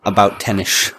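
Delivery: light Scottish impression with a shushed ending; Sean Connery. Punchline of a Wimbledon joke, with a slurred Scottish shushed S. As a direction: make "ten-ish" sound like "tennish". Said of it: "does Sean Connery get to Wimbledon".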